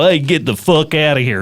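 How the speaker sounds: lightly Southern-accented brush-off; a touch of coarse Southern US accent. Shown as a demonstration. American imitating a coarse person, light Southern accent. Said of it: "and we go Southern".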